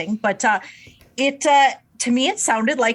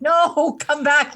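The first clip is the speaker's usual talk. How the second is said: mock pleading; 6 semitones higher, slower than usual. Voices artist pleading with departing listener.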